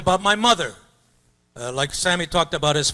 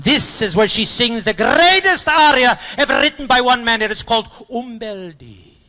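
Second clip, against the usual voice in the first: mock grand announcement; 7 semitones higher, 6 dB louder than usual.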